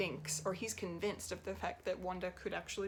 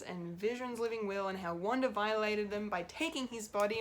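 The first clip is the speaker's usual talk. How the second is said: exasperated rant; 3 semitones higher, 4 dB louder than usual. Real, not acted. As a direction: vent at him, fed up. Ranting about Hayward's hypocrisy.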